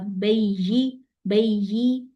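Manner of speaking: बैयी with a stop that makes an ai glide; wrong reading. Shown as a demonstration. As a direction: pause on बैयी so it sounds like ai. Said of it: "ऐ नहीं करना".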